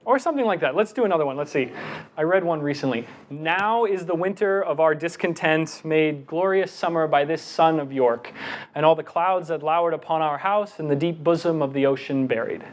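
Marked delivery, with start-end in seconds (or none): 3.3-12.6 Shakespeare run on in long unbroken breaths; rolled-through recital. Shown as a demonstration. Demonstrating to the audience, a recital rushed on one breath. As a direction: push through the lines without pausing for breath. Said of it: "See how I just kinda rolled with it?".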